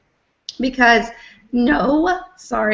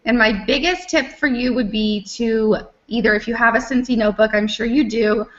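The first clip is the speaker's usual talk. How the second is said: hoarse, voice giving out; losing her voice. Real, not acted. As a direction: speak with a voice that is going hoarse. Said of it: "I'm losing my voice here".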